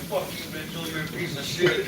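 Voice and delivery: a hint of a shoulder devil sneering; mock devil. Friend playing the devil to the angel, half-hearted devil voice. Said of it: "like, an angel and a devil".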